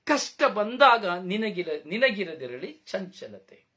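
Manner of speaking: "ಕಷ್ಟ ಬಂದಾಗ" read out slowly and evenly, fading on "ನಿನಗಿರದಿರಲಿ ಚಂಚಲತೆ"; slow scripture reading. Shown as a demonstration. Preacher reading the verse to the congregation, slow and measured. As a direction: recite the verse slowly and calmly, letting it settle. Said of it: "ಅದಕ್ಕೆ ವಾಕ್ಯ ಹೇಳ್ತದೆ".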